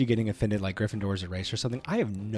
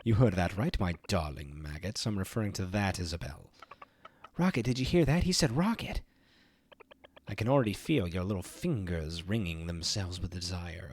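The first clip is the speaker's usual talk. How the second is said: showy, gloating evil host voice; theatrical villain announcing a prize; game show villain. Acted. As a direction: ham up the mastermind's big reveal. Reads the game villain's lines.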